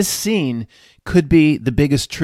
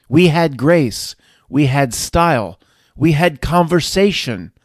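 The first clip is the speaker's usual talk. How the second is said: loud French rant, beeps squeaked much higher; mocking phone users in a loud French accent; 5 semitones higher, 6 dB louder than usual. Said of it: "He's imitating all the people down into their phones".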